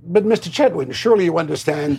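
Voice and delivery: smooth the writer over with mock patience; a light impression of the director's gentle rebuke; imitating David Lean. Retold David Lean persuading.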